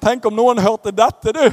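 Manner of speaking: slow, alarmed inner thought; mock panic. Preacher recalls his fear on the plane, mock alarm. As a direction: fret slowly to yourself. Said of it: "da tenkte jeg".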